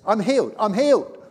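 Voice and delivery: loud, high shout of joy; imitated ecstatic outburst; exultant cry. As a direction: cry out in sudden amazement at being cured. Dying woman suddenly healed.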